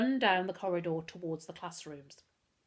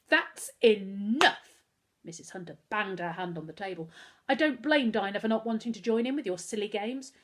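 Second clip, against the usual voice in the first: angry scolding; 3 semitones higher, 4 dB louder than usual. Acted. Mother banging the table and scolding her son, loud and firm. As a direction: lay down the law.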